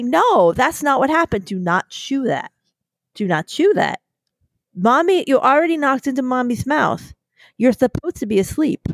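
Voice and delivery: lightly voiced scolding mom talking to her dog; mommy voice to puppy. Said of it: "Listen to the way you sound".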